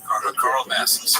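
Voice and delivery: Calabasas turned into "Carl Bassis", slowly split in two; mock mispronunciation. Host mimicking Chop's botched "Calabasas", slow and deliberate. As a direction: mangle the town name like a famous name.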